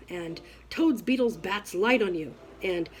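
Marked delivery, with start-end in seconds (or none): 0.7-2.3 toads, beetles hurled quickly and loud; loud and fast curse. Shown as a demonstration. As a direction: rattle it off like a curse. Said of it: "say them loud and fast".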